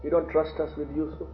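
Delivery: mildly reproachful questioning. Retold or imitated. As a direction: imitate sons reproaching their father. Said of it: "coming in a very reproachful way".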